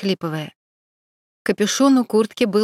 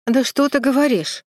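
disappointed; 5 semitones higher, 3 dB louder than usual. A narrator's reading. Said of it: "несомненное разочарование".

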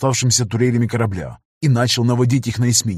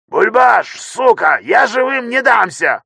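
much higher, loud defiant scream; desperate yell; 11 semitones higher, 4 dB louder, slower than usual. A narrator's reading. Tech screaming defiance over the intercom, desperate yell. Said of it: "крик техника по громкой связи".

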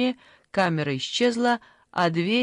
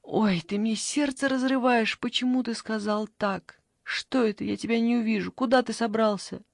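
higher, pleading lament; plaintive complaint; 4 semitones higher than usual. Acted. Granny begs the grandson, pleading and higher. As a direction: plead with the boy not to leave. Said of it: "она вдруг пожаловалась".

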